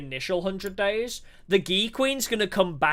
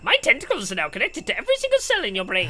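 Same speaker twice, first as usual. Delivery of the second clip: villain voice; 4 semitones higher, faster than usual. Acted. Voicing the Gi Queen.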